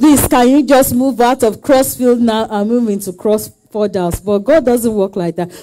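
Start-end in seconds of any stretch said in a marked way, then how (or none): none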